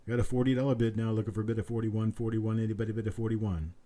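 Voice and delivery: quick steady auctioneer patter; auction bid calling. Acted. Auctioneer calls for the next bid in brisk patter. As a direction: keep the bids rolling like an auctioneer.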